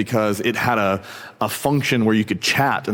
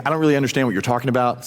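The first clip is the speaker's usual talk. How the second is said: quick, offhand brush-off; casual denial; 2 semitones higher, much faster than usual. Retold or imitated. Peter brushing off the first accusation, quick casual denial. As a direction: toss the denial away fast. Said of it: "The first time he was saying".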